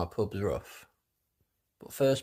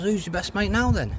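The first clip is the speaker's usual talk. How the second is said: cheeky barman voice; 10 semitones higher, 4 dB louder than usual. Acted.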